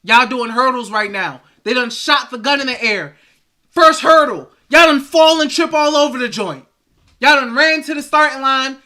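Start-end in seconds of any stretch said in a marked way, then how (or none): 3.7-8.8 louder, higher taunting; animated mockery; mocking. Real, not acted. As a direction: ridicule the team's stumble. Mocking race metaphor.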